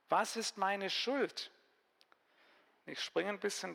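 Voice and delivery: a lively Bible reading for a group; Bibelgeschichte vorlesen. Acted. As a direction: read the story out to the listeners. Reads the Bible story aloud. (lebhaft vorgelesene Bibelgeschichte)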